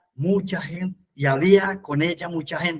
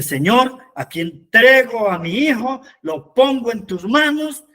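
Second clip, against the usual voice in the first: raised, louder plea to God; imploring, high and emphatic; fervent prayer; 4 semitones higher, 5 dB louder than usual. Acted. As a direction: call out a heartfelt prayer of surrender. Models a prayer of surrender.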